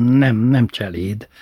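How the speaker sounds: slow, pointed correction; mother primly fixing the word; correcting. Retold or imitated. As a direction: insist on the proper word, slowly. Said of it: "javított ki édesanyja mindig".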